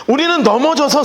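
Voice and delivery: ordinary delivery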